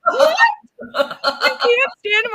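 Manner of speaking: high, loud what, then a slow incredulous echo; can't believe what she just heard; shocked disbelief. Real, not acted. Host reacts to the author dissing her hero, shocked.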